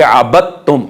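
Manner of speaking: अबदतुम as "abattum", double t; merged daal. Shown as a demonstration. Teacher repeating the correct form, merged daal. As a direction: drop the d of अबदतुम into t. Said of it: "तो इसको पढ़ेंगे".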